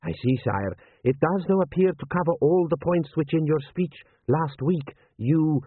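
lightly voiced general advising his prince; cautious, respectful military adviser; deferential general.

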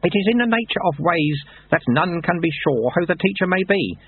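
lightly voiced wry old monk; dry, knowing old sweeper; old monk Lutze. A narrator's reading.

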